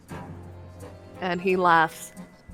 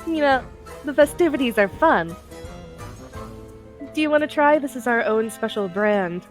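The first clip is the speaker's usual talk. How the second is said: put-on young woman voice; 2 semitones higher than usual. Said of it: "she kinda giggles a little bit".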